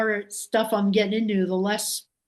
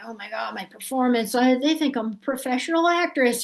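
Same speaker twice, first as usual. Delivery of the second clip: mildly panicked, higher toward the end; retold panic; 4 semitones higher than usual. Actress dreading her performance, mildly panicked retelling. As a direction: replay a nervous inner freak-out.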